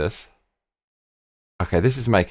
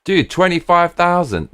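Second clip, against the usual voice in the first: excited surprise; 9 semitones higher than usual. Real, not acted. Pleased at a cheap fare.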